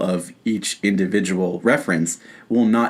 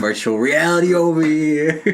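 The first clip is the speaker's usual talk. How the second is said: mock showman; 6 semitones higher than usual. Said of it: "Steven Spielberg is like".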